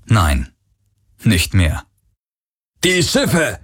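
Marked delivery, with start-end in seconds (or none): 2.8-3.6 a panicked cry from inside the house, pitched high; distant shout. A narrator's reading. Guard in the house yelling an alarm, high shout. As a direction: call it out in alarm. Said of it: "hörte er jemanden im Haus rufen".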